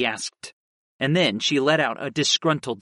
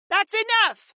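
sudden higher shout. A narrator's reading. Ice Mage stopping aunt and nephew arguing, shouting. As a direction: cut the quarrel off with a sharp cry. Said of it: "Ashla shouted".

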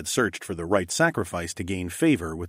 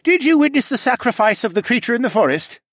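creature voice; 7 dB louder than usual. Acted. Cadahy questioning Evan.

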